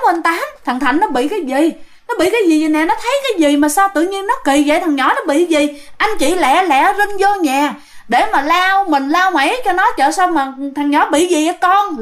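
concerned crowd chatter, re-enacted; alarmed neighbours. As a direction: worriedly urge the parents on. Neighbours fussing over frightened boy.

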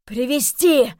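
loud, high outcry; Robert bursts out loud; exclaimed. Acted. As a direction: cry it out at full force. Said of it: "вскричал Роберт".

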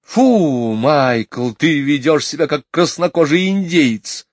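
high, loud disapproving scold; high scolding mother. A narrator's reading. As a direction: tell off a wild child.

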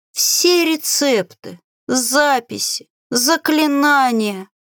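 high, slow, creaky grumble; creaky, displeased voice. A narrator's reading. Grimoire scolding the witch, creaky displeased voice. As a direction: draw out each item in high complaint. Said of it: "Скрипучий и недовольный голос".

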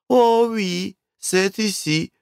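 high, bright-voiced girl, smiling; smiling waitress. Waitress cheerfully confirming to the guests, smiling. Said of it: "улыбнулась девушка".

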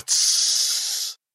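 voiceless, drawn-out shush; long shushing hiss. A narrator's reading. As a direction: hush the listener with a long hiss. Burning man hushes Foyle.

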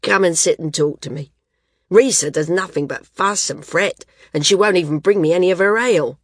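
hearty invalid, a touch loud; hearty Garth. Acted. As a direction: grumble good-naturedly in a big voice.

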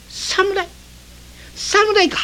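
high, shocked squeak of fear; startled. Acted. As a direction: voice jumps up at the word samurai. Reveller shocked by the news.

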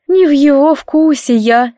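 slow, sorrowful admission; dejected. Acted. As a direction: say it crushed and hopeless. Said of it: "сокрушённо опустила голову".

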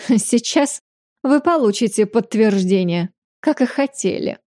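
haughty, smirking lady; grande dame. Acted. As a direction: say it with a lofty sneer. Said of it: "надменно произнесла леди Мансера, усмехнувшись".

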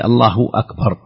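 "الله أكبر" with the h of Allah voiced clearly before a clean glottal stop on akbar; demonstrating the proper takbir, each word separate; correct takbir. Shown as a demonstration. Scholar showing the listener the correct takbir, careful and clear. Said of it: "لا شك أن الصيغة هي".

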